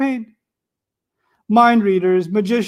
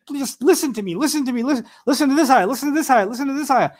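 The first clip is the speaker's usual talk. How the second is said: higher, repeated urgent begging; relentless pleading; 5 semitones higher than usual. Pretend. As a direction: keep pleading, refusing to give up. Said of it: "the relentless, persevering".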